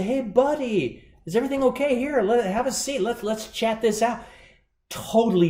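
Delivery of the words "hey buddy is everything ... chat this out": caring American customer. Retold or imitated. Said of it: "they'll say".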